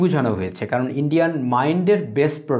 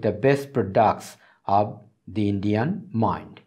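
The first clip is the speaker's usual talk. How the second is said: reads the English passage aloud very slowly, word by word; slow text reading; much slower than usual. Acted. Teacher reading a passage to students, very slow and deliberate. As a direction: lay out each English word slowly for the class.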